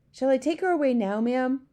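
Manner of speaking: nervous maid, lightly voiced; maid's voice. A narrator's reading.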